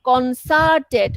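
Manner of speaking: slow demo of কনসার্টেড, final sound said as t; drawn out কনসার্টেড ending in a clear t; pronounced with a t ending. Shown as a demonstration. Teacher showing students how to end কনসার্টেড. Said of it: "ওটা টি".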